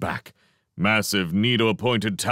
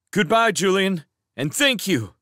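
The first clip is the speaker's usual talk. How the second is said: higher and louder, calling to someone walking off; calling after; 12 semitones higher, 4 dB louder than usual. Acted. Mouse calls thanks after the departing cat, loud. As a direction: call goodbye across the orchard. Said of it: "Matthias called after".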